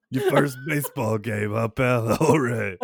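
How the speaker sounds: put-on a loud, back-slapping Midwest accent; Midwest uncle accent. Uncle welcomes kid to first game, loud Midwest accent. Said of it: "And he talks like this".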